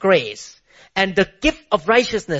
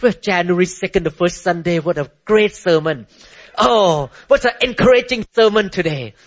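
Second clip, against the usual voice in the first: mock praise. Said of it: "everyone say".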